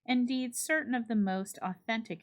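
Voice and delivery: measured, expressive storytelling read; story narration. A narrator's reading. Librarian reads a Halloween story to online listeners, storyteller narration. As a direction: draw listeners into an old spooky tale. Reads Sleepy Hollow aloud.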